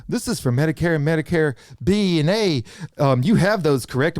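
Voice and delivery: hint of a recorded phone agent; robot caller voice. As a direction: recite it like an automated call. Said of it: "they like to call with the robot voice".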